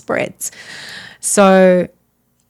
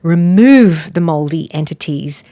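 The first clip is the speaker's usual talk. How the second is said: a firm push on "remove", then evenly down; retold prayer command; 2 semitones lower, 5 dB louder than usual. Praying over a sick woman in a bathroom, firm command.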